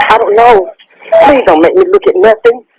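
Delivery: high-pitched, distressed refusal; real panicked plea; distraught pleading. Real, not acted. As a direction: beg not to be made to look, voice pitched high. Caller begged to look at gun.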